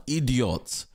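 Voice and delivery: one drawn word in a light African accent. Real, not acted. Dismissing the absent father, African accent. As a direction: let the African accent slip into it. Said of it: "you have the African side coming out of me".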